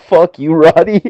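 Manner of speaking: high, loud imitated outburst; playful retold shouting; mock angry yell. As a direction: throw it at him, hammed up. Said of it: "Kyle's like".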